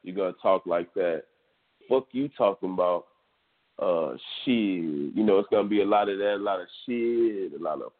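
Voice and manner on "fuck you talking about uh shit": Houston slang. Shown as a demonstration. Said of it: "talking like Houston".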